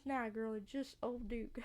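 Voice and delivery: slow Southern character voice; unsure attempt at a Southern accent. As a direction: drawl it slowly in a Southern accent. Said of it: "What is this accent and voice".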